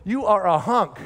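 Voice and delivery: a playful whoop of admiration; imitating wife's compliment. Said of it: "Elaine goes".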